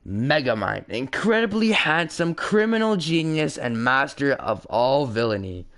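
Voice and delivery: grand, self-admiring villain voice; a touch of hammed-up villain swagger; boastful villain. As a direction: puff yourself up like a proud supervillain. Megamind boasting about himself.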